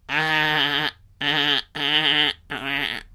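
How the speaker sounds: string of held, buzzy ah noises; mock stuttering wail. Viewer losing it at a bizarre film, mock wailing. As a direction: make broken-up mindless ah sounds.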